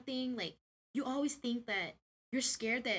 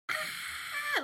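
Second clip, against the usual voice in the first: mock scream. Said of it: "I screamed so loud".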